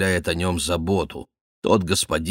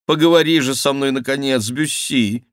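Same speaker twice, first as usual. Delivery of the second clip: high, pressing plea; exclaiming; 7 semitones higher, 4 dB louder than usual. A narrator's reading. Duke begs Bussy to talk at last, exclaiming. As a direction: urge him to talk, high and quick at first. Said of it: "воскликнул он".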